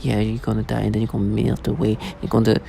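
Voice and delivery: a hint of a sneering taunt; mocking soft gimmicky voice. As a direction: imitate their smug soft threat, dropped low. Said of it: "Your, your tone of voice".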